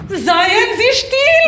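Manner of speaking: slow, loud and high hushing command; furious slow command to be silent; slow furious order. Acted. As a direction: drag out "still" furiously.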